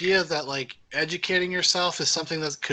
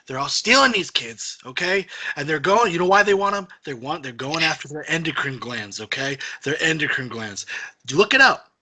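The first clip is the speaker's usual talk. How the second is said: Dan. Retold or imitated. Teasing Dan about stealing kids, hammed-up ranting. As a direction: imitate a friend's worked-up conspiracy rant. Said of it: "Dan's like".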